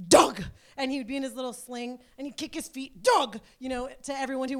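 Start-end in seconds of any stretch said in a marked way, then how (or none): 0.1-0.4 loud, proud little shout of a name; toddler announcing. Retold or imitated. Toddler greeting a passerby, a loud happy shout. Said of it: "he would announce". 3.0-3.4 loud, bright little shout of the name; toddler announcing. Retold or imitated. Baby kicking in the sling, shouting a name loudly. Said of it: "he would announce".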